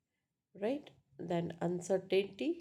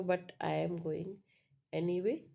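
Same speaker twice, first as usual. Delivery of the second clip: ANYWAY lifted at the end; rising tone. Shown as a demonstration. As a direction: pause after "going", then let "anyway" rise. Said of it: "that's also, uh, in".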